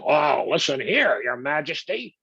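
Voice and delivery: put-on slow, high Brooklyn accent, brash. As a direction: sound like a Brooklyn guy telling off the king. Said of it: "He's got a Brooklyn accent".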